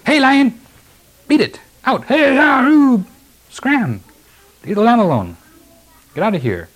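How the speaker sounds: high, loud mock yelling at a lion, easing off at the end; shepherds shouting. Scared shepherds trying to drive a lion off a lamb, shouting. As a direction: yell to scare off a beast, high-pitched and acted. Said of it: "these shepherds just shouting".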